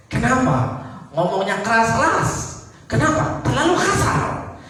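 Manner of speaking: rising indignation, whining then demanding; indignant protest. Retold or imitated. Rebuked sinner protests louder.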